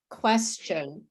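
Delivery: "question" with a "ch" in the middle; "question" as a demo word, T turned to ch; no T sound. Shown as a demonstration. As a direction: say "question" as "KWES-chun". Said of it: "There's no sound of T".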